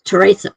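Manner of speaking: Teresa said the Italian way, teh-RAY-sa with the stress on RAY; Italian pronunciation. Shown as a demonstration. Correcting how people say her name, Teresa as teh-RAY-sa. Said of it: "it's pronounced Teresa".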